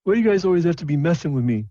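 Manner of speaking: high, fast, nervous halfling whine; a bullied halfling pleading with the orcs. Acted. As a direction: rush the words out, scared and fed up. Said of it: "he says nervously".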